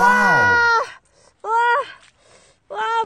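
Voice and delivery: a loud, high burst of delight; excited wow. Real, not acted. Vlogger shouting wow at the catch, excited. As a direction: cry out in amazement at the catch. Catching fish on ice, exclaims.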